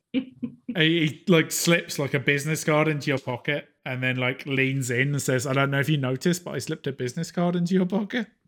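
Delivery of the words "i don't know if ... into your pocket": clingy, uncomfortable, awkward, needy tone. Voicing a character who leans in to speak: awkward, needy way. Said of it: "in a really kind of awkward, needy way".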